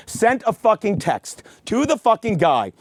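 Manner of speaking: usual speaking voice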